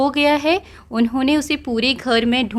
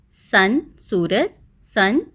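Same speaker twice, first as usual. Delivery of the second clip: drawn-out word demo; slow teaching demo; much slower than usual. Shown as a demonstration. Teacher slowly modelling sun and son for pupils. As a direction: say each word slowly for the class. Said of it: "यहाँ पर दोनों words का sound same है".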